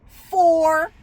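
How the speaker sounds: just drop the number, no softening; blunt flat answer. Retold or imitated. Coworker bluntly answering how many families, flat retold reply. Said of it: "She said".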